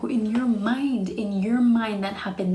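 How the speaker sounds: "your mind" stretched and lifted; emphatic retort. Retold or imitated. Retorting to his flirting claim.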